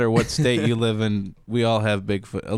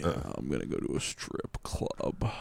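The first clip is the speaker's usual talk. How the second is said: whispering; 9 semitones lower, 12 dB quieter than usual. Pretend. Mocking repeat.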